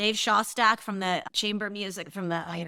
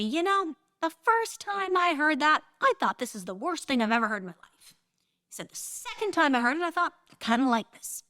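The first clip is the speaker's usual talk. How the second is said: high-pitched impression of a neighbor, building; acted-out convert, climbing higher and louder; retold growing enthusiasm; 9 semitones higher, 3 dB louder than usual. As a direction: start measured and high, build to a loud, delighted confession. Acts out older neighbor's growing enthusiasm.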